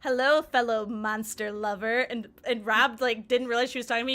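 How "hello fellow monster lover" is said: a slow, mildly mysterious hello; drawn-out, lightly eerie welcome; slow spooky greeting. Retold or imitated. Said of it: "And then she goes".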